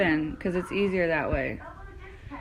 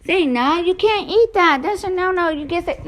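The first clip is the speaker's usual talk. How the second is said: talking to the dog; 8 semitones higher, 4 dB louder than usual. Real, not acted.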